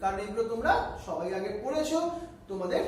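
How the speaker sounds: quick, hurried recap; brisk teacher pace; speaking fast. Real, not acted. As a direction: rush through the known part. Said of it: "একটু fast বলছি".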